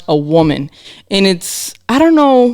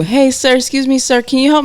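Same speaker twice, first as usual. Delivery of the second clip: higher, polite stranger calling out sir; lightly voiced polite stranger trying to get her attention; imitating a stranger's call; 8 semitones higher than usual. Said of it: "I can't tell you".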